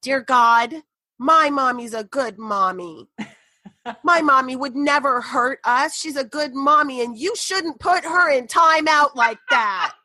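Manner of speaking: mock little-girl prayer ending very high; imitating praying little girl. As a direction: plead to God like a small child, building. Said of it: "this is what I hear".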